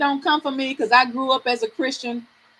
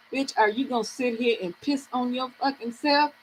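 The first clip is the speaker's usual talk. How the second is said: scolding herself; 8 dB quieter than usual. Retold or imitated. Woman privately challenging herself to get up, quiet self-scolding. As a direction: softly tell yourself off. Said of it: "I had to talk to myself".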